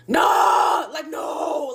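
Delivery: imitated chorus of tired friends objecting; exasperated shout. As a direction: cry out a drawn-out refusal. Group refuses the deli trip.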